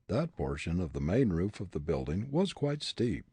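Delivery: usual speaking voice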